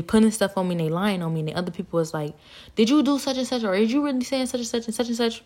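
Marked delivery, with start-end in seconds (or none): 2.7-5.4 higher-pitched mock questioning voice; questioning onlookers. Other people confronting her about the lie, questioning. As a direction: imitate people asking accusingly.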